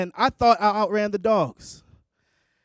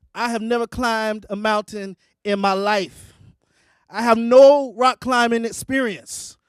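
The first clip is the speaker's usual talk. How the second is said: raised, emphatic storytelling exasperation; exasperated protest; 5 dB louder than usual. Retold or imitated. Hiker stuck facing a climb, exasperated. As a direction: build to a louder, indignant protest.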